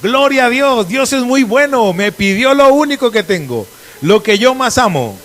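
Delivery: loud, high, slowing cheer, played for irony; mock jubilant shout. Preacher imagining Abraham's reaction to losing his son, mock jubilant shouting. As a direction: shout praise in mock celebration. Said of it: "empezó a gritar".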